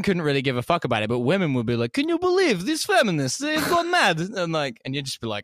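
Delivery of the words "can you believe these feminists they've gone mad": very high mocking woman's voice; imitating a woman in a much higher voice; mock conservative woman. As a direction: falsetto gossip about feminists. Russian women voiced mockingly.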